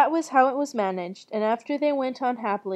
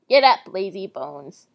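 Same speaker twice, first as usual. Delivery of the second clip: lower, loud witch attempt; 4 semitones lower, 5 dB louder than usual. Witch rousing lazy Gretel, low loud witch voice. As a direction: push out a low witch command. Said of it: "my witch voice".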